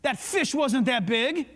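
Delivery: half-voiced inner conscience calling out a lie; inner voice speaking up. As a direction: mildly correct yourself like a conscience butting in. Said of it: "hear that voice rise up and say".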